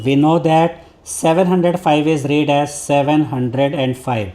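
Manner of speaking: slow, careful reading of the book's English line; textbook read-aloud. Acted. Teacher reading the textbook to students, slow and deliberate. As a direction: read it out word by word for the class.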